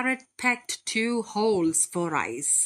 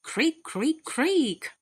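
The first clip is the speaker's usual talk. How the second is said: higher, sing-song creak of a hamster wheel; creaky wheel; 6 semitones higher, slower than usual. A narrator's reading. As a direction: mimic a turning wheel, creak creak. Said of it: "the hamster's wheel went creak".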